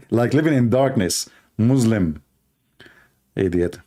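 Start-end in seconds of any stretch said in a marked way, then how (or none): 1.6-2.2 "Muslim" with a z sound; mispronunciation shown. Shown as a demonstration. Repeating the caller's wrong word, "Muslim" said with a z. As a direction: say "Muslim" as "Muzlim". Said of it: "Muslim, which means dark".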